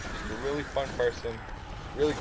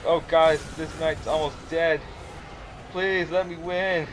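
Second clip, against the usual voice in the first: pleading hype; 5 semitones higher, 4 dB louder than usual. Retold or imitated. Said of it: "And I'm just like".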